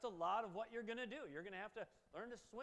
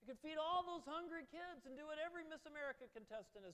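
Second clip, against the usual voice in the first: lightly voiced tempter, somewhat higher; coaxing tempter; 7 semitones higher than usual. Satan coaxes Jesus with the good he could do, lightly voiced. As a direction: coax him gently, like a salesman. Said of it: "and says".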